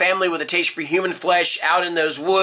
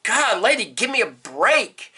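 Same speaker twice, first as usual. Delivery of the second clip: exasperated; 3 semitones higher than usual. Retold or imitated. Blogger fed up with commenter's complaints, exasperated. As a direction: beg off, fed up with the nagging. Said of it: "she just kept on and on about it".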